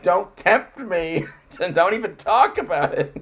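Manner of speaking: slow, loud, tempted protest with a laugh; hammed-up resisting temptation; mock Amish man. Pretend Amish man begging not to be tempted, slow and loud. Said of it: "And he's like".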